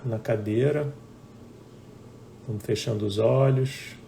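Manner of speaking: unhurried meditation guidance with long pauses; guided meditation. Real, not acted. Teacher guiding live viewers to close eyes and breathe, guided meditation. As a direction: guide them gently into breathing, phrase by phrase.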